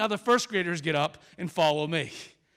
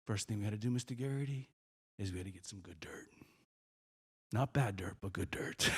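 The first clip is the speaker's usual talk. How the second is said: very low, hushed, half-whispered child impression; confiding little boy; 11 semitones lower, 10 dB quieter than usual. First grader explaining gardening to the visitor, hushed confiding half-whisper. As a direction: share it like a grave secret, up close. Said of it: "gets right into my face and he goes".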